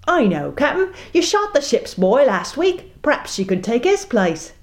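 put-on first mate pleads for girl; timid first mate. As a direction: beg nervously. First mate suggests nervously.

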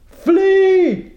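sudden very high, loud bellow; captain bellows at first mate. Acted. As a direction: blast the order out. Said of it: "he bellowed".

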